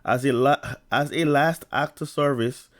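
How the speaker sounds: stammering restart on the phrase; catching on the words and restarting; stuttering. Real, not acted. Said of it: "The stuttering, and then I'm getting tongue-tied".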